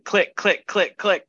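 drumstick click count. Shown as a demonstration. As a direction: call the count like sticks clicking. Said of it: "so usually it's like".

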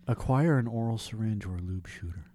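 whispered mock instructions; whispered reading. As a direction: whisper it like a secret. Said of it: "in that voice".

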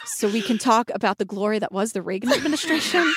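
low, hushed barfly voice with laughter; mock a stuffy regular at the bar; Boring's bar patron impression. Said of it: "doing an impression of someone at Boring's".

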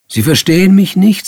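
loud, high-pitched indignation; acted affront at full voice; indignant outburst. Indignant outburst at Miss Harris.

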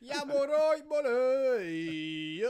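put-on Birmingham accent. Mocking Brummie cheer.

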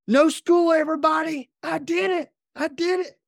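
very high mock kid's scream; imitated triumphant scream. Eight-year-old running through the house after winning, high imitated screaming. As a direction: squeal it like an overjoyed child running wild. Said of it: "running through the house screaming".

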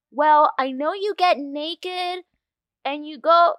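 put-on high, slow little-kid chipmunk voice. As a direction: squeak it like a tiny chipmunk. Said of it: "I give myself this little chipmunk voice".

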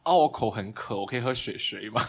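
put-on babyish Taiwanese accent teasing; cutesy Taiwanese accent. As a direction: whine it in a cute Taiwanese lilt. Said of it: "故意惹她说什么". (台湾腔装可爱)

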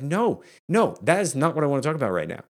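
imitating an exasperated wife, high-pitched; emphatic retold "no", then hurrying on; firm refusal. Wife's refusal acted out.

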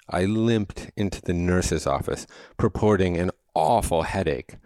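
plain reading voice

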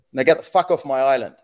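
mildly stern imitation of a cop. Cop dismissing the paparazzi from his island, lightly acted sternness. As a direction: order them out with a touch of authority. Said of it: "the cop goes really stern".

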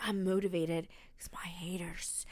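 mocking gym bro. Mocking gym haters quote.

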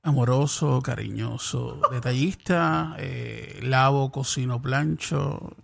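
sensual voice. Acted. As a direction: purr it like a dating ad. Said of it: "no pongas esa voz".

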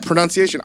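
pronunciation said with OUN as in pronounce; pron-OUN-ciation. Shown as a demonstration. Host tripping over the word, misreads pronunciation with ow. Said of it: "I think it looks like pronunciation".

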